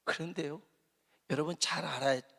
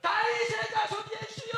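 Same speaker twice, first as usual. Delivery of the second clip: very high, strained shout of 다윗의; desperate shout. Shown as a demonstration. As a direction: scream it out with everything. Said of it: "이렇게 소리를 질렀다는 거예요".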